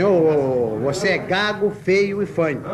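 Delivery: lightly voiced stammer; stutterer. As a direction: stumble over the opening sounds.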